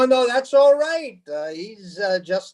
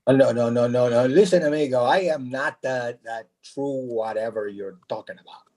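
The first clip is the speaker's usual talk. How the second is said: Hispanic repairman; 13 semitones lower, faster than usual. Acted. Jesus voiced by a character.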